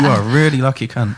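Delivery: backhanded praise in an everyday voice; understated bitterness. Acted. Telling a lucky mate what he is, with understated bitterness. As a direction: let the congratulations drop to matter-of-fact. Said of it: "'Cause there's bitterness, and that's very English".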